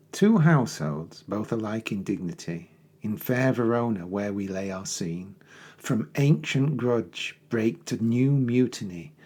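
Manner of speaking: measured, dramatic verse recitation; poem reading. Acted. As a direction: read it like a stage prologue. Reads the prologue aloud.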